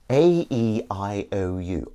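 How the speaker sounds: slow drawn-out vowel warm-up; vocal warm-up. Shown as a demonstration. Warming up his voice before the stream, slow vowels. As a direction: stretch each vowel out slowly to warm up. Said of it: "Warmed up the old voice".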